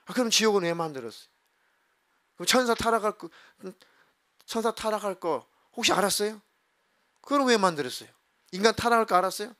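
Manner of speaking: retold argumentative questioning; 따지는 말투. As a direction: fire off accusing questions, as if confronting God. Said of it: "왜 이렇게 따졌어요". (하나님께 대들듯 따져 묻기)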